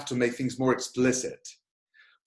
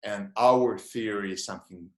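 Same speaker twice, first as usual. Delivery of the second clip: changed lecturer tone; 4 semitones lower than usual. Shown as a demonstration. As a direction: drop into a serious lecturer's tone. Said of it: "now I changed my voice".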